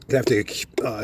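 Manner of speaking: sniffling through a head cold. Real, not acted. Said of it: "excuse my sniffling".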